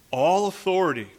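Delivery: deliberate, weighty reading of the verse; measured scripture reading. Real, not acted.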